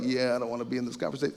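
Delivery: inner thought. Retold or imitated. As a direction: toss it off like a private thought. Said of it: "in their head, they're like".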